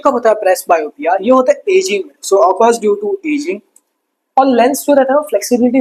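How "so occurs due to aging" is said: dictation. Shown as a demonstration. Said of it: "dictating notes".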